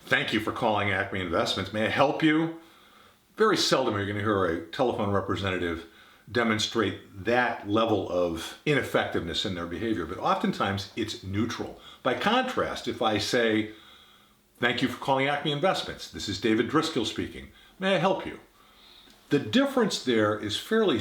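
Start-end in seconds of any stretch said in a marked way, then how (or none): 0.0-2.5 exaggerated boredom. Shown as a demonstration. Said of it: "I could exaggerate it". 14.6-18.4 interested and attentive. Shown as a demonstration. Phone rep greeting a caller, interested and attentive. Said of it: "communicated a level of interest and attention".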